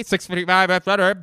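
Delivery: very high, loud naval yell; hammed-up captain screaming an order; frantic movie impression. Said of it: "here's my impression of".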